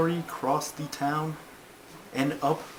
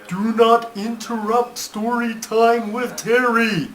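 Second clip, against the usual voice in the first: louder, raised voice to stop interruptions; loud scolding; 6 semitones higher, 9 dB louder than usual. Acted. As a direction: tell the heckler off firmly. Storyteller snaps back at interruption.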